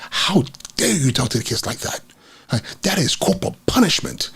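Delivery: indignant imitation, pitch swinging up; mock outrage. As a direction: scold in retold, affronted disbelief. Retelling the principal's outraged confrontation.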